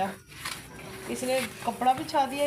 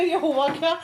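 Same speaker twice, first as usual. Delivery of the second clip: retold startle; 3 semitones higher, 4 dB louder, slower than usual. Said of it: "मैं खुद डर गई, मैं कहा".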